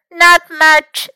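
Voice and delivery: high, loud little-one voice; small child's voice. A narrator's reading. Hurt Louis answers Fox, high small voice.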